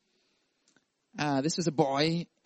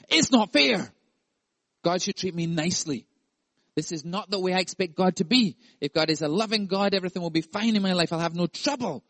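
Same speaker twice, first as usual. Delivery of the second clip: higher whining tone; spoiled child; 3 semitones higher than usual. Pretend. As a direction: pout like a spoiled kid. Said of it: "In the words of our spoiled little children".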